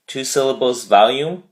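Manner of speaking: VOL-ume, first syllable stressed; "volume" stressed on the first syllable. Shown as a demonstration. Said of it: "the emphasis on the first syllable".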